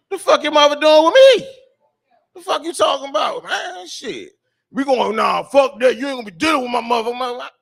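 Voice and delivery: high, very loud yelling back; furious shout. Retold or imitated. Comic yelling back at her son, furious shout. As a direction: bark it straight back at him. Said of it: "I said".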